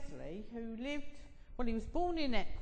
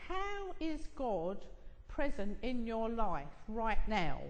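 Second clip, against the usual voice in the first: slow searching question; slower than usual. Retold or imitated. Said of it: "and saying".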